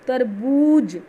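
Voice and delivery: तरबूज said slowly with बू pressed long. Shown as a demonstration. Teacher modelling तरबूज for pupils, slow, pressing बू. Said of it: "ऐसे pressure डालना पड़ रहा है".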